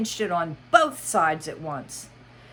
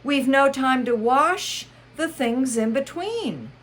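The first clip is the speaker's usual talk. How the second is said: Mad Hatter voice; 9 semitones higher, 5 dB louder than usual. Acted. Hatter speaking.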